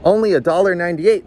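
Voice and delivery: a wounded wobble in the voice, pleading; quavering. A narrator's reading. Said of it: "Missus Malloy quavered".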